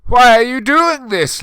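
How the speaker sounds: loud, high angry cry; angry demand. A narrator's reading. Lupin angrily confronting the narrator, loud and high. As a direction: demand it furiously. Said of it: "Lupin said angrily".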